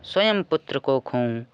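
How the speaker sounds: slow, emphatic poem recitation; verse recitation. Acted. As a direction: recite it line by line, drawing out the line ends.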